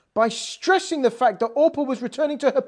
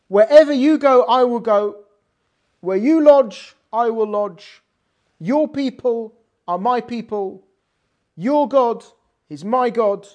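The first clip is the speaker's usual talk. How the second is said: louder, solemn declaration; emphatic vow; 5 dB louder than usual. Retold or imitated. Rus proclaiming her vow to Naomi. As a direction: proclaim every clause.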